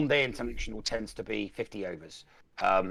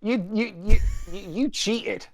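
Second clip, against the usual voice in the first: playful accusation; 11 semitones higher, 8 dB louder than usual. Pretend. Mock outrage over the war.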